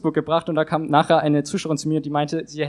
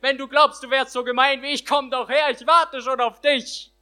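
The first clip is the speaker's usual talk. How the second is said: higher, boastful mock yell from a treetop; boastful shout; 6 semitones higher than usual. Till calls out from the treetop, boastful mock yell. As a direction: crow it out like a cocky prankster. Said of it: "und von dort schrie er".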